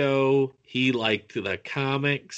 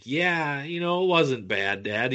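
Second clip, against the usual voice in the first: humoring dad; 4 semitones higher than usual. Retold or imitated. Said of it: "I humored him after".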